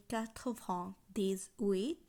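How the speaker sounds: "quatre vingt dix-huit" slowly, in separate chunks; French pronunciation demo. Shown as a demonstration. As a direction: lift the end of "dix-huit" for learners. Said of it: "আটানব্বই উচ্চারণ হবে".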